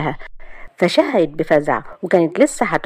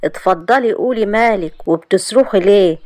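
sly; 3 semitones higher than usual. Acted. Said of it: "قال لها محمد بخبز".

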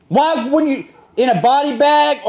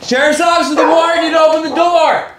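calling out; 4 semitones higher, 4 dB louder than usual. Real, not acted. Deputy announcing through door.

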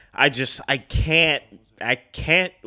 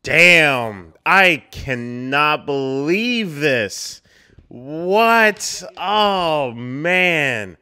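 a loud stunned gasp of words; loud shocked disbelief; 5 semitones higher, 6 dB louder, much slower than usual. Real, not acted. Viewer stunned by the twist on screen, loud disbelief. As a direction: blurt it out, unable to believe it.

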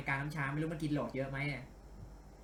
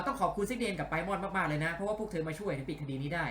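lightly voiced male colleague, more direct; Ryuji; 2 semitones higher than usual. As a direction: redo the thanks as a man, less lilting. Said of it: "ตะกี้เป็นเสียงริวจินี่หว่า เอา ขอ ขอใหม่". (พากย์เสียงผู้ชายแบบเป็นกันเอง)

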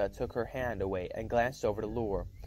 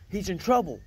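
sudden alarmed shout, higher and louder; jolting awake with a shout of alarm; 8 semitones higher, 4 dB louder than usual. Acted. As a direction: blurt it out in a panic. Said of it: "I shouted".

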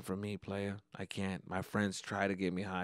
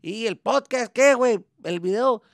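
much higher and louder scolding Mexican dad in Spanish; dad's voice; 12 semitones higher, 9 dB louder than usual. Retold or imitated. Dad scolding son over YouTube and video games, mocking angry rant. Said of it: "My dad called me talking shit".

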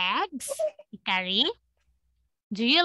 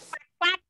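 duck quack; 5 semitones higher than usual. Shown as a demonstration. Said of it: "Dog's like quack".

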